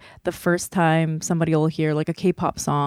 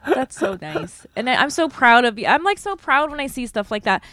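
choked up with pride, holding it together; getting emotional; 5 semitones higher than usual. Real, not acted. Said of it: "I don't know why I'm getting so emotional".

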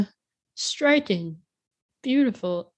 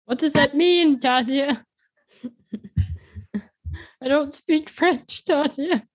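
mock bewildered; 6 semitones higher, 4 dB louder than usual. Real, not acted. Mock outrage at French answer.

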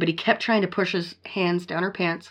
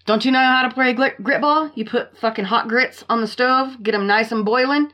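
fired up; 5 semitones higher than usual. Real, not acted. Fired-up revenge rant.

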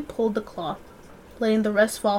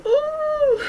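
squeal. Real, not acted. High squeal before reading.

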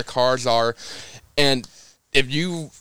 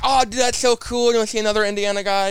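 excited; 10 semitones higher than usual. Retold or imitated. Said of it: "Chase Briscoe's commenting".

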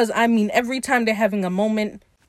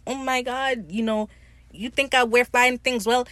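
imitated shock; 4 semitones higher than usual. Imitating Ed's reaction to Steed's compliment, shocked. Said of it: "like, he's shocked".

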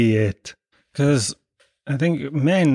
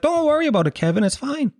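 much higher, insistent mum voice; mother reassuring; 12 semitones higher than usual. Retold or imitated. Mother insisting to kneeling Kevin, pitched high. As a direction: mum pressing that it's fine. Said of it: "my mother was like".

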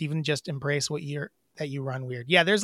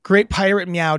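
pirate meow; 4 semitones higher, 7 dB louder than usual. Acted. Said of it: "the pirate meow".

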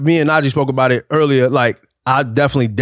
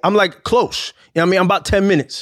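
indignant disbelief; 6 semitones higher, faster than usual. Retold or imitated. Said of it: "I said".

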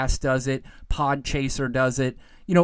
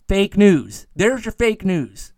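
mock fake news; 2 semitones higher, 5 dB louder, slower than usual. Mocking the Trump catchphrase.

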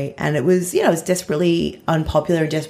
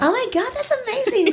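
bubbly radio host, much higher. Shown as a demonstration. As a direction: gush like a breakfast radio host. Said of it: "I'll do my radio voice".

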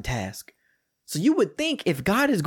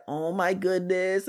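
slow, higher-pitched imitated weepy wail; mock crying wife; 4 semitones higher, 3 dB quieter, slower than usual. Wife calls husband at work in tears, imitated crying. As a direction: draw it out like a tearful caller. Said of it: "And she's crying".

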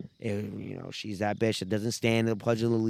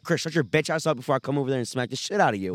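mock threat; 3 semitones higher, faster than usual. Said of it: "'cause I'm already loud".

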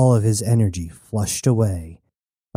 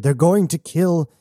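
higher, desperate warning; urgent splutter; 6 semitones higher than usual. A narrator's reading. Prisoner warns the newcomer of murder, spluttering urgently. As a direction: get the warning out before being stopped. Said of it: "Woods spluttered".

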